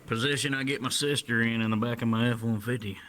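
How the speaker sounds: put-on southern accent with British slipping out; mock southern accent. Brit joking about his truck, mock southern accent. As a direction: play the redneck in a faked southern accent. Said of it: "trying to do a southern accent".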